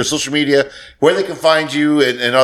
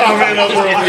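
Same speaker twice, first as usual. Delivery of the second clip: high put-on movie voice; Full Metal Jacket quote; 7 semitones higher than usual. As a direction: echo the film line in a mock character voice. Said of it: "Full Metal Jacket".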